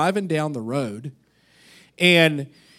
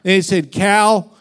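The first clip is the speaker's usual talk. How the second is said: mock preacher building up, louder; preaching to a cow; 3 dB louder than usual. Pastor preaching salvation to a cow, mock fervent. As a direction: ham up a street preacher to a cow. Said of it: "Now he's starting to get into it".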